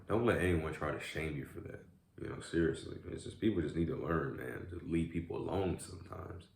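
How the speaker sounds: talking with ice cream in mouth; mouth full. Real, not acted. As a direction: speak around a mouthful. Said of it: "saw the ice cream in my mouth".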